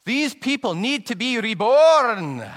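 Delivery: put-on loud, high, slow Scottish-accented declaration; Scottish proclamation. Old Scot lecturing the preacher in a Scottish accent. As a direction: proclaim it slowly like a fiery Scot. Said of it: "I'm gonna do a Scottish accent here".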